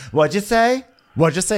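high-pitched mock challenge, rising; confrontational challenge. Mikhail confronts TJ over a remark, challenging.

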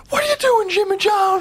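very high-pitched scolding Southern mother; country mama. Acted. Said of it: "his mom would come and be like".

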